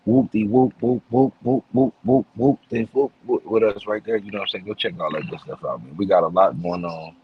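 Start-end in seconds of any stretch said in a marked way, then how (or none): 0.1-3.5 playful whooping. Pretend. Playful filler hype.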